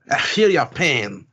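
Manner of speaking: slow, drawn-out character delivery; hammed-up talkative nobleman; put-on Count voice. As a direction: draw out the words as a pompous Count. Voicing the Count in a manga.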